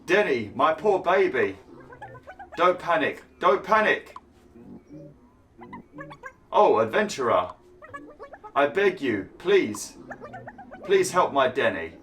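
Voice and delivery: high pleading mother voice; worried mother. Acted. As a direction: beg like a frantic mother. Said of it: "Worried mother".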